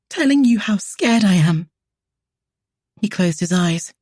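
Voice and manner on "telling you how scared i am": high, loud, breaking on the words. A narrator's reading. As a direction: let the voice crack on telling you. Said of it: "her voice broke".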